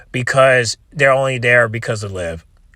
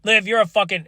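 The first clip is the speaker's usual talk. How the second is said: exasperated outburst; 7 semitones higher than usual. Real, not acted. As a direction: blurt it out, fed up. Outburst high pitched.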